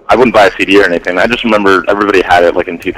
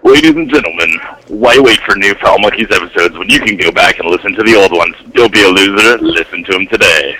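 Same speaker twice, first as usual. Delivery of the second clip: movie announcer voice. Acted. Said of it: "I'll say it in the big movie announcer voice".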